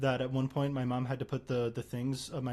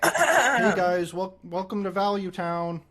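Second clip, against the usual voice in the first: high, loud, laughing streamer intro; streamer impression; 5 semitones higher, 6 dB louder, much slower than usual. Shown as a demonstration. Opening his gaming streamer bit for the game, high and loud. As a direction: hype up the stream like a caster. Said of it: "what about Trump?".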